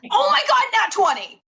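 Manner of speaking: high, loud joyful yelp; thrilled cry. Real, not acted. Player celebrating a natural twenty with a shriek. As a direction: shriek it out with delight.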